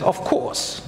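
lightly put-on British accent, half laughing; mock British accent. Preacher mimics a listener's computer, mock British accent. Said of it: "in a, in a British accent".

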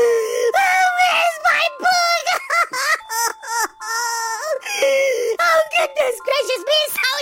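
hammed-up sobbing. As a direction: bawl it like a baby who lost his book. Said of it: "You're laughing at me crying".

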